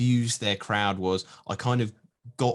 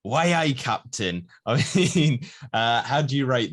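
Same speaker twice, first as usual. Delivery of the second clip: Geordie accent; 5 semitones higher, 5 dB louder than usual. Shown as a demonstration. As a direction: have another go at Geordie, drawing it out. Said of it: "Let me try that again".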